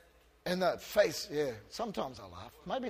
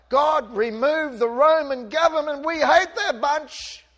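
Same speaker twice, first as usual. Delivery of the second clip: raised, loud mock prayer, slowing at the end; preacher voicing a pretend angry prayer against Rome, loud; mock demand; 5 semitones higher, 4 dB louder than usual. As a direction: sneer out the complaint as a pretend prayer.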